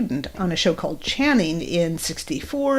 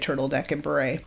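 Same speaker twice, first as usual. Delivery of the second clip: softer, trailing repeat of "turtleneck"; quiet echo; 3 semitones lower, 5 dB quieter than usual. Retold or imitated. Arnold softly echoing Oliver's list of clothes, quiet echo. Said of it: "Arnold echoes Oliver's orders".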